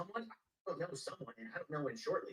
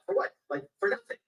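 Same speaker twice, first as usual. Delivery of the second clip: second "For what?" jumps far higher and louder; shrieking protest; 10 dB louder than usual. Retold or imitated. A detainee protests to the guards in a high shout.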